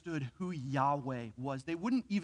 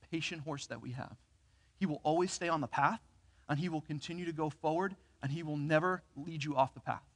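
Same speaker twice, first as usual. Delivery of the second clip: softer, calm reassurance of a kindly trainer; reassuring trainer; 4 dB quieter than usual. Retold or imitated. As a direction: soothe the scared boy, gently and quietly. Trainer reassuring a scared boy.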